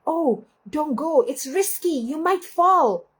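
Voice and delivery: a fearful little voice urging caution; worried inner voice. Retold or imitated. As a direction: inner critic warning against a risky hike, anxious. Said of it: "this voice like".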